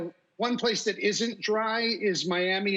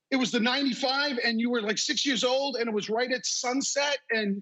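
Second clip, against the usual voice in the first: fast, higher, laughing through the list; excited rush of details; 4 semitones higher than usual. Retold or imitated. Reliving the crash memory for his wife, fast and laughing. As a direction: tumble the facts out quickly, amazed.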